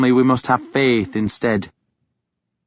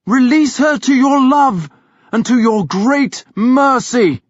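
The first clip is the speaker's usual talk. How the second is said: shouted exorcism; 12 semitones higher, 4 dB louder than usual. A narrator's reading. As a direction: command the demon out with full force. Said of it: "he called".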